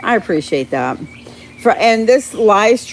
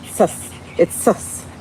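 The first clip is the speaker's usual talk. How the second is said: mock whisper; 2 semitones lower, 4 dB quieter, slower than usual. Real, not acted. Jokey aside about suspect bugs.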